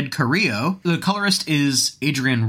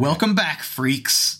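menacing host greeting; 2 semitones higher, slower than usual. Shown as a demonstration. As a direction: lean into freaks with relish. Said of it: "That's right".

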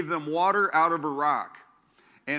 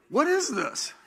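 puzzled question; 10 semitones higher than usual. Retold or imitated. Acts out puzzled Hebrews.

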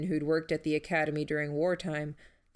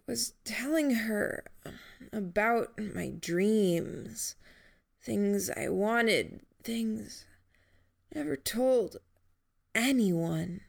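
higher and very slow, straining on the last words; fading confession; 4 semitones higher, slower than usual. Acted. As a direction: confide it slowly, voice thinning out. Dying Jamie confides, drifting.

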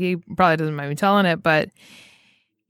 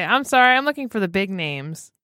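mock indignant quote. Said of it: "the audacity for one thing to say".

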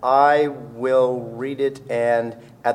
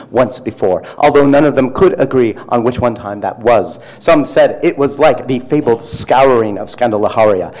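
hammed-up, halting dramatic reading with punched words; a light Shatner-style overwrought reading; William Shatner voice; 3 dB louder than usual. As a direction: overblown Shatner delivery, lightly done. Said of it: "read this in my best William Shatner voice".

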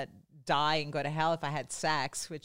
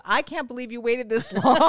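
laughing cousin; 5 semitones higher, 5 dB louder than usual. Retold or imitated. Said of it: "she goes".

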